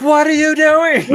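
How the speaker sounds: high, loud, laughing mock panic; panicked friend. Friend calling from the car, high laughing mock panic. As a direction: squeal it out like a scared friend half laughing.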